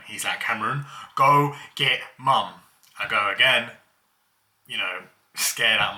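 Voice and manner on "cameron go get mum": louder, imitated yell for mum; mock scream. Brother still on the floor demanding mum, mock scream. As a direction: retell a shouted order, pushing the volume. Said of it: "still screaming".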